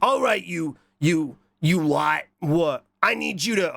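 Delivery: hint of a throat-straining boss voice; bossy boss. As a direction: play at bossing them around. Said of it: "oh, this is hurting my throat".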